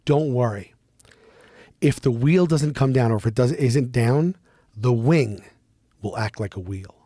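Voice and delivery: imitating a pilot's earnest, measured reassurance; all seriousness. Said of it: "he goes, in all seriousness".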